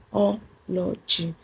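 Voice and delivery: "biology" slowly, syllable by syllable, leaning on the O; slow teaching demo of "biology" with stress on the O. Shown as a demonstration. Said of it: "The stress is in the O".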